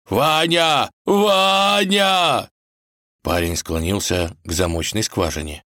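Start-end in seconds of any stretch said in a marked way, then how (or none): 0.1-2.5 громкие высокие вопли; колотит в дверь и зовёт. Acted. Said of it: "с воплями". (волк кричит Ване сквозь запертую дверь)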